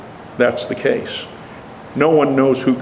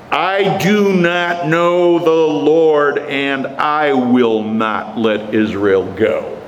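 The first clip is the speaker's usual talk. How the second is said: slow, drawn-out proclamation, mildly raised; hammed-up royal refusal, every word stretched; loud declaration; much slower than usual. Preacher voices Pharaoh refusing to free Israel, mildly loud. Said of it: "And he says it loudly".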